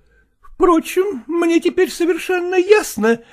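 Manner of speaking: wife mocking husband's mistress; sarcastic wife. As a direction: sneer it out with a bitter laugh.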